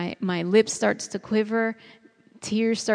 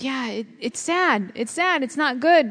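higher, rising lament on "It's sad"; a hint of crying grief; grieving; 5 semitones higher than usual. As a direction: let the sorrow break through, pitch climbing. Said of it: "I let that all out to God".

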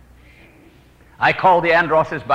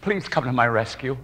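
silent prayer; 3 semitones lower, 6 dB quieter than usual. Retold or imitated. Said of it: "I said in my heart".

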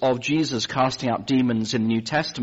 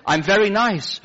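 higher, bright-eyed nurse voice; eager nurse; 10 semitones higher, 6 dB louder than usual. Retold or imitated. Nurse asking the patient about America, eager and high. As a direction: play the starstruck nurse, pitched up.

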